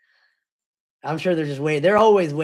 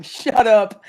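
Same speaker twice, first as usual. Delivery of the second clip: retold shout; 3 semitones higher, 6 dB louder than usual. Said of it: "at the worst time of me saying".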